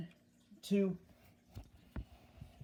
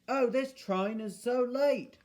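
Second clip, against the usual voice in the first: higher-pitched passenger complaint; complaining; 6 semitones higher than usual. A narrator's reading. Passengers to each other about the late train, complaining. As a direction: moan about the delay in a raised voice. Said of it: "They started complaining".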